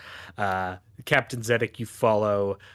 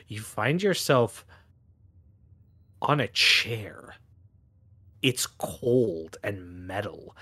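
slow, hushed narration; slow scene setting. Acted. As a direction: set the dark scene slowly.

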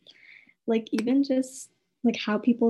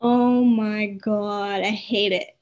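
emphatic; 7 dB louder than usual. Real, not acted. Strong reaction to shoes indoors.

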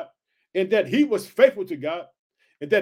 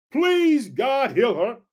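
crying out; 4 semitones higher, much slower than usual. Acted. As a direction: plead aloud for his sister. Moses crying to the Lord.

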